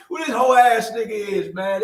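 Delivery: loud, high challenge; retold threatening shout; mock tough yell. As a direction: shout it like a cocky teen. Retold confrontation, reckless youth.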